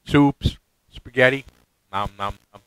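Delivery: speaking without upper teeth; gummy, toothless talk. Real, not acted. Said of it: "Got all my teeth out".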